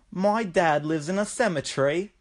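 softly imitated Aussie boy, rising at the end; creepy Australian kid. Kid answers a stranger in a store, creepy Australian kid imitation. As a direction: lightly voice an eerie Australian child. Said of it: "the kid's just like".

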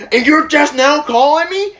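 high-pitched indignant dad imitation; acted-out alarmed, angry questioning; freaked out and mad. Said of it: "freaked out and fucking mad".

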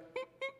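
tiny high imitated sobs; soft squeaky put-on crying; dramatic mock whimper. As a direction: mimic a daughter crying softly. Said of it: "so dramatic".

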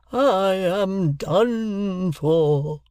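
very slow, dying victim's moan; faint moan. Acted. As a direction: drag the words out like a dying man. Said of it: "He faintly moaned".

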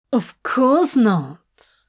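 slow, drawn-out denial; taken-aback, blustery protest; blustering. Acted. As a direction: deny it with mild bluster.

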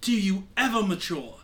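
lightly voiced, exasperated mentor pirate; exasperated Lindell. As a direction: scold your former pupil with mild exasperation. Game master plays Lindell scolding the pirate.

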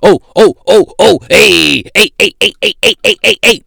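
loud mock yelping passenger; mock rowdy passenger. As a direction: ham up an obnoxious guy yelling on a plane. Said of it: "talking about some".

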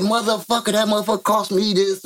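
high-pitched mock yell, no real volume; imitated yelling. Mama cussing her son out over the limo's cost, mock yelling. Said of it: "she yelling".

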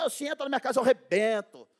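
imitating a hothead who won't be told; hammed-up tough guy; tough guy bragging. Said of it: "os caras falam".

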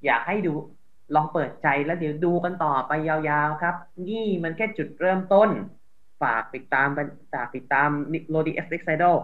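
low, soft polite appeal; gentle sample reply. Pretend. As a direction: softly ask critics to give it a chance. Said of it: "ถ้าเป็นผมเจอแบบนี้ ผมก็จะบอกไปว่า".

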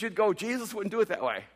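ordinary talk

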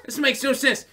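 put-on kid's confusion. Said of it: "I was sitting there going".

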